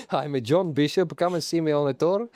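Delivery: attempted Scouse accent; John Bishop. Podcaster asked to do Scouse, attempted Scouse accent. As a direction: have a go at Scouse. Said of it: "do a Scouse accent".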